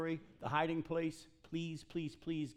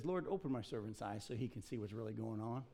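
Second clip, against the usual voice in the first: calm prayer, softer and lower; 7 semitones lower, 9 dB quieter than usual. Acted. Elisha praying for the nervous servant, very calm. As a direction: pray it quietly and calmly, voice dropped low. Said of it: "Elisha very calmly says".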